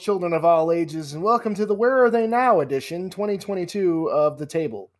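showman's big welcome; ringmaster. Pretend. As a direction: announce it like a circus ringmaster. Host opening show like ringmaster.

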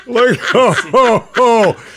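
loud laughter through the words; laughing. Real, not acted. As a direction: laugh hard at own pun. Laughs at own joke.

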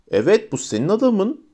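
high-pitched excited call-out; narrated shout. A narrator's reading. Narrator spots the man they are after, calling out. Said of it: "diye bağırdım".

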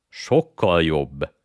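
slow, eager burst of delight; enthusiastic. Acted. Digori, hungry, greets the offer of toffees with slow, eager delight. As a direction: perk up at the thought of toffee. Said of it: "lelkesült fel Digori".

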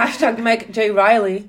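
slow words through laughter; laughing. Real, not acted. Friend laughing at the steak bake joke. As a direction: talk while giggling.

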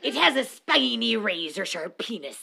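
hammy pirate narrating; cartoon pirate, one eye shut. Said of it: "Do you like my pirate voice?".

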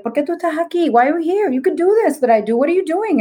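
high, quick, challenging questions; imitating an incredulous older psychic. Acts out older psychic scolding her.

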